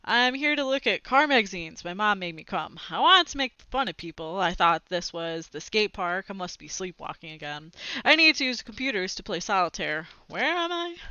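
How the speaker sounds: a flustered, lightly voiced kid's string of excuses; rapid excuses. A hint of a boy making excuses to his friend. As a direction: rattle off excuses, caught out. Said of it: "rapidly making excuses".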